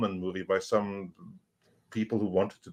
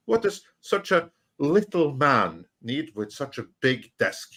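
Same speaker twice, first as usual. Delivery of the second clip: lightly imitated Austrian actor, mocking; Arnold Schwarzenegger; 4 semitones higher than usual. Actor laughing at a short producer, mock teasing. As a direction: tease in a higher mock Arnold voice. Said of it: "So Arnold, he laughed at him".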